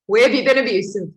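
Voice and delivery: loud, fast self-challenge; self pep talk. Retold or imitated. Pushing herself in her room to face the truth, loud. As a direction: rouse yourself to face it. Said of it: "And I was like".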